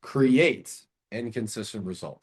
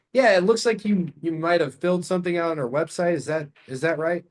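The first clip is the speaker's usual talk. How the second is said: higher, light and questioning; curious tone; 4 semitones higher than usual. Shown as a demonstration. Caller asking seller about website form, curious. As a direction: sound genuinely curious.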